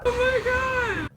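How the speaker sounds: high, squealed disbelief; real high-pitched surprise; stunned delight. Real, not acted. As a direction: gasp it out, overjoyed and stunned. Learning of the audition result.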